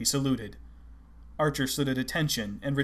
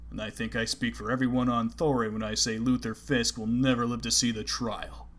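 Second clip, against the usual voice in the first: deep voice. Acted. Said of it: "a deep voice said".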